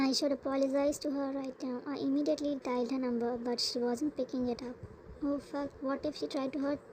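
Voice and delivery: loud, urgent rush of worry; panicked. Acted. Husband rushing to find his wife, loud and panicked. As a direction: race the words as if she might be hurt.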